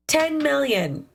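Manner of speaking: slow, high stunned repeat. Real, not acted. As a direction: let the number sink in. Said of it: "That's insane".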